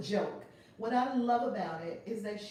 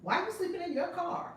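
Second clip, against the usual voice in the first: lightly voiced comedian, pitched up; mock-incredulous question in a higher voice; Kevin Hart; 8 semitones higher than usual. Retelling a comedian's advice to a struggling friend, light imitation. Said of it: "Kevin Hart said something funny to her".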